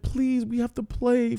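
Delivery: put-on a dreamy, lost old man remembering; confused old man. The old man recognising his old village, high and dreamy. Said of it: "starting to develop dementia issues".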